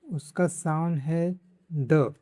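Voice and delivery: slowly spelled out, leaning on द; slow, clear teaching. Shown as a demonstration. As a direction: draw out the sound द for learners. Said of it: "English का जो डी है".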